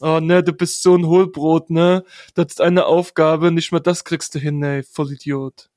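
loud jeering teasing; mocking lads. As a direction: taunt a friend as a drunk lad. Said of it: "haben die Jungs ihn dann halt so richtig aufgezogen".

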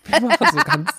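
breaking into giggles; words bubbling with laughter; laughing mid-sentence. Real, not acted.

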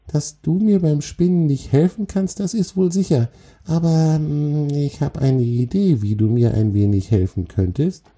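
very high, tiny spider voice; calmer little spider. Acted. Spider has an idea how the troll could help, calmer. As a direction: think aloud in a high creature voice. Spider figure speaks in character.

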